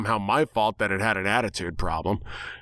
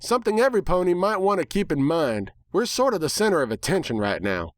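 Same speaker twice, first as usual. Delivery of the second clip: Applejack voice; 8 semitones higher than usual. Acted.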